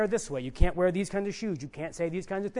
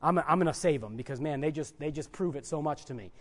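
lightly voiced God, lower and quieter; God musing approvingly; 4 semitones lower, 3 dB quieter than usual. Preacher imagining God judging a good believer, low musing. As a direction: say it low, as if thinking aloud. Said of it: "God looks at and says".

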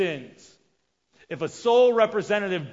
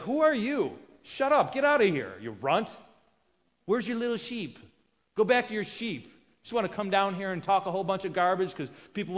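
angry brother; 3 semitones higher than usual. Retold or imitated. Older brother Eliab mocking David, angry taunt. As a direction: sneer at the little brother to drive him off.

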